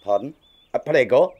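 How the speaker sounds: puzzled put-on Italian accent; confused comic Italian pizza man; fake Italian accent. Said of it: "They just forced me to do the accent".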